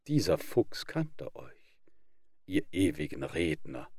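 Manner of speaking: whispered aside. Acted. Narrator whispering the moral to the audience. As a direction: let the moral slip out in a whisper.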